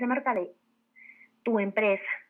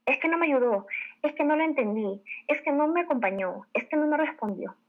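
higher-pitched list of excuses; mock excuse-making; 5 semitones higher than usual. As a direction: shift the blame, higher, each excuse landing alike. Acting out blame-shifting excuses.

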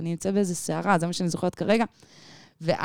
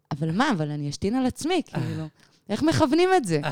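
puzzled disbelief; 4 semitones higher than usual. Retold or imitated. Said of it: "ואני אומרת לה כזה".

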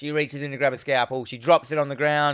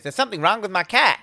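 worried pet owner; 6 semitones higher, faster than usual. Retold or imitated. Acts out patient talking to doctor.

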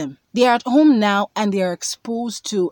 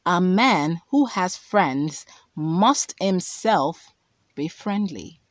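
slow, deliberate scripture quote; quoting scripture slowly; slower than usual. Shown as a demonstration. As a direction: lay the verse out word by word. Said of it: "that says".

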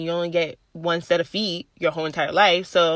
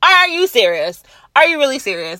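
mock disbelief. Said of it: "I'm like".

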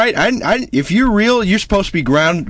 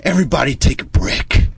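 Trump impression; 4 semitones higher than usual. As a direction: rouse the crowd like Trump at a rally. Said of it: "you don't want me to be Trump".

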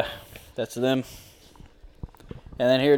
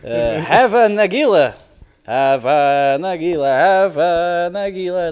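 light imitation of a Jewish accent, a bit higher and louder; hammed-up Jewish accent, dragging the Nagila lines; mock Jewish accent; 4 semitones higher, 6 dB louder than usual. Showing friends how the record sounds, mock Jewish accent. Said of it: "it's in a Jewish accent".

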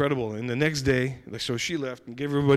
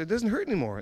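much higher, delighted repeat; excited; 8 semitones higher, faster than usual. Retold or imitated. Cashier repeats to the speaker that her toe is healed, excited. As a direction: announce it with excited wonder. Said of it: "And she was all excited".

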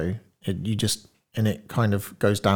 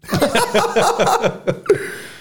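long rising giggle; high laugh; 4 dB louder than usual. Real, not acted. Laughs at joke.

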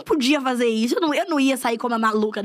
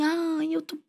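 mock whiny poor-me; 4 dB quieter than usual. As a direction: drag it out like a self-pitying boyfriend. Ex complaining he is broke.

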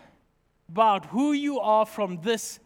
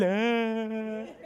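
awed gasp; 2 semitones lower, 4 dB quieter than usual. Retold or imitated. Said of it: "the only thing I can do is".

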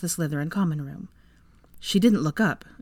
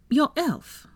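small smirk; 10 semitones higher than usual. A narrator's reading. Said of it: "Pansy said with a small smirk".

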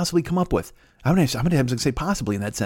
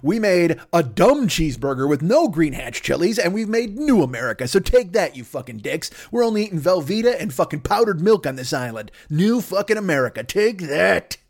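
taunting New America; 2 semitones higher than usual. Acted. New America gloats at America, mock cocky taunt. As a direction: gloat like an upstart nation.

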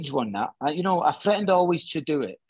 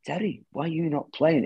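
badly faked French accent; rough impression of a French speaker; attempted French accent; 3 semitones higher than usual. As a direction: have a hesitant go at sounding French. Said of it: "Is that French accent, that?".

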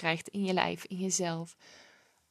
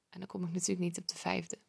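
whispered aside; 7 dB quieter, faster than usual. Real, not acted. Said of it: "unvoiced whisper".

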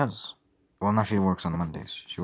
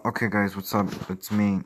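a livelier, louder hello to the viewers; peppy host opening; upbeat stream intro; 3 semitones higher, 3 dB louder than usual. Pretend. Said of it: "Hey, guys, it's me, your boy, Justin".

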